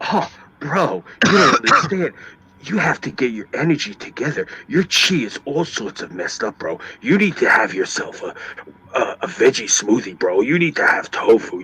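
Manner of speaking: mock California stoner-surfer accent; California surfer bro. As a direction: impersonate a Californian surfer dude preaching wellness. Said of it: "Why the fuck do they all talk like that in California?".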